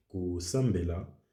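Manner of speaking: "kosambela" with the m held, doubled. Shown as a demonstration. Comparing Lingala with Japanese, "kosambela" with a doubled m. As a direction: sound the m fully in "kosambela". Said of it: "il est doublé".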